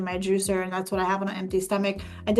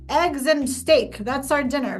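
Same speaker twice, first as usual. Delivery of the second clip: emphatic, higher-pitched stubborn declaration; stubborn determination; 4 semitones higher, slower than usual. Retold or imitated. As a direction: lay down the dinner law, slow on the first words. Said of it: "just being so stubborn".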